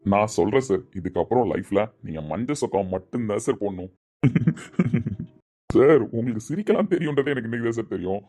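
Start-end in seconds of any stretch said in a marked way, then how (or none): 4.2-5.2 laugh. Real, not acted. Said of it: "சூப்பரா சிரிக்கிறீங்க sir".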